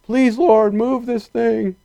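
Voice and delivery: slow, rising, begging prayer, lightly hammed; mock pleading prayer. Preacher shows the wrong way to pray, slow and pleading. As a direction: beg God like a needy petitioner, half-mocking. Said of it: "he's not praying".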